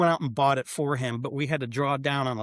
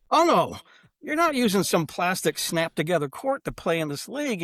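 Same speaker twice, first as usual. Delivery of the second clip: firm refusal; 5 semitones higher than usual. Retold or imitated. Retold firm refusal to owner.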